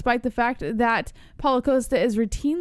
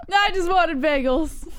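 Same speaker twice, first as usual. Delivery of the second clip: mock crying; 5 semitones higher, slower than usual. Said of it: "That's the best part".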